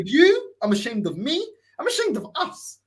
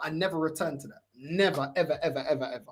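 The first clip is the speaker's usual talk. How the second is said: fading quiet vow; 6 semitones lower, 7 dB quieter than usual. Retold or imitated.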